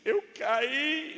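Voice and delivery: high mock-tearful child voice; crying little boy. Crying son answers his mother, high pretend whimper. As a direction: whine it high like a hurt child. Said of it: "o menino chorando responde".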